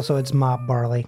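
spoonerism, sounds swapped on purpose; jumbled syllables. Pretend. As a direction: swap the first sounds as a pun. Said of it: "spoonerisms are a rarely well-performed art form".

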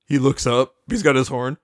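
low, sly villain aside; a deep trickster murmur; low Discord voice. Retold or imitated.

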